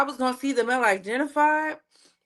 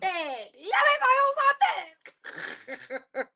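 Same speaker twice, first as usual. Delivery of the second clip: laughing; 5 semitones higher, much slower than usual. Real, not acted.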